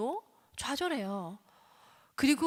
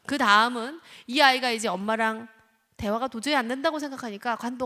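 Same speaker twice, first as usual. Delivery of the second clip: ordinary delivery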